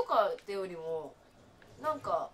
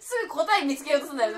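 laughing; 3 semitones higher, 9 dB louder than usual. Real, not acted. Laughing scold at friend.

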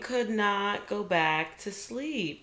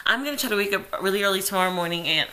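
talking while being tickled; faster than usual. Real, not acted. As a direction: squirm through the words, fast. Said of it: "he's tickling me and I'm trying to freaking talk".

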